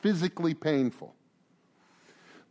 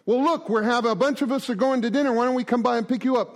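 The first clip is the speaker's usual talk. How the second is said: higher, fast, upbeat invitation; eager friend; 5 semitones higher, faster than usual. Acted. Friend calling to drag him out to dinner, higher and fast. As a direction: rush the invite like a keen buddy.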